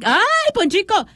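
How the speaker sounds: happy surprised cry of recognition; delighted surprise. Real, not acted. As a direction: greet the returning friend with glad surprise. Missing listener finally appears.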